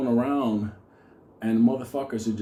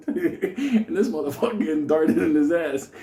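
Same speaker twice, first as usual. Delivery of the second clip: laughing; 4 semitones higher, 4 dB louder than usual. Real, not acted. Cracking up at own story.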